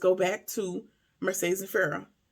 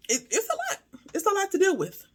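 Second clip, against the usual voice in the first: rueful laugh; 9 semitones higher than usual. Real, not acted. Overwhelmed remark with laugh, voice high.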